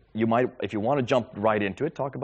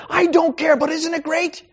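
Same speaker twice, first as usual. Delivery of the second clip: gleeful laugh; 9 dB louder, slower than usual. Retold or imitated. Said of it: "friend Ishmael answering, laughing".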